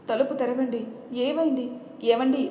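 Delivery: calling through door. Acted. Wife bangs on locked door.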